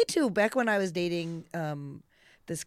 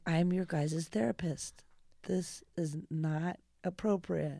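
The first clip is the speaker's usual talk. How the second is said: slow whispered aside; a slow whisper to yourself; 8 dB quieter, slower than usual. Pretend. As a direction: mutter it under your breath like a private thought. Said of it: "you're like".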